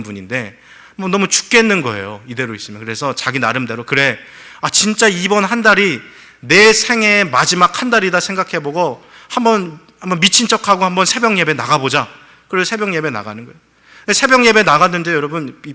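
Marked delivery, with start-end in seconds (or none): 3.8-12.1 a man daring himself to try; resolved inner vow. Retold or imitated. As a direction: psych yourself up to go. Deacon's inner resolve, retold.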